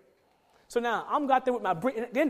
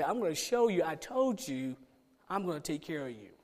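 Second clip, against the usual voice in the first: lower, softer voice of gentle assurance; reassuring; 5 semitones lower, 6 dB quieter than usual. Retold or imitated. God promising to provide for a worried man, quietly reassuring.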